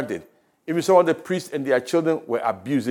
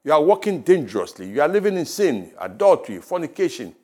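voice of God; 3 semitones higher than usual. Acted. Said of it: "hear that voice of God telling you".

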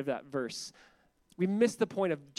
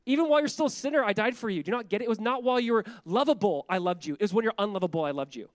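impassioned God voice; 4 semitones higher, 5 dB louder, faster than usual. Retold or imitated.

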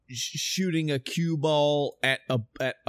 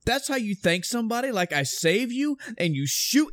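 much higher, fast, incredulous complaint; aggrieved Dante, pitched way up and rushed; indignant Dante; 11 semitones higher than usual. Retold or imitated. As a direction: protest like a hero shot by the woman he saved. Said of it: "He goes".

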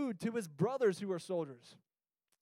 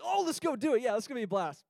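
higher, louder eager mock cheer; mock bravado; 4 semitones higher, 4 dB louder, faster than usual. Teens bragging before the haunted drive, higher louder mock cheer. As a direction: pump it up like a cocky teen.

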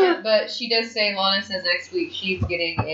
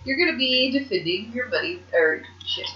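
retelling the wrestler's reply in a lifted voice; imitating Paige; 4 semitones higher than usual. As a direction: sing it up high like Paige brushing her off. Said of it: "she's just like".

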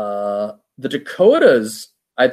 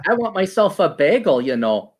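put-on Yiddish accent; 5 semitones higher than usual. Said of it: "Minnesota Jew sound".

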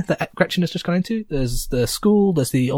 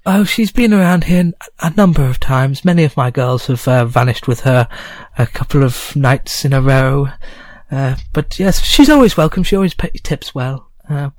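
higher, gossipy innkeeper voice; goblin landlady; 3 semitones higher, 5 dB louder than usual. Acted. Landlady gossips with the adventurers, voiced high. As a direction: chat on like a nosy barkeep.

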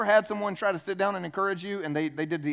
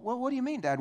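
higher-pitched mock teenage challenge; defensive teenager; 6 semitones higher, faster than usual. Preacher plays teenager answering Dad, defensive. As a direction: push back at Dad in a raised pitch. Acted parent and teenager quarrel.

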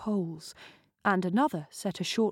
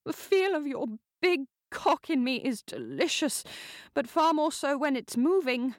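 higher, coaxing and demanding; sultry countess; 7 semitones higher than usual. Acted. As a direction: goad him on seductively. Countess urging her lover.

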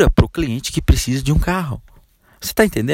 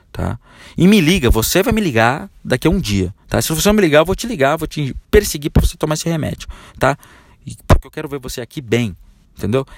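a lightly voiced doctor giving orders; commanding doctor, insistent; firm doctor. Doctor ordering patient Joelma to buy medicine, firm. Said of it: "O médico fala assim com você".

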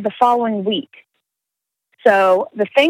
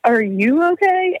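imitating the guy; 9 semitones higher than usual. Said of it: "And he's like".

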